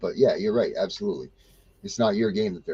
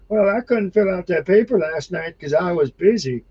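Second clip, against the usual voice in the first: whiny excuse; 7 semitones higher than usual. Retold or imitated. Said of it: "to hear you be like".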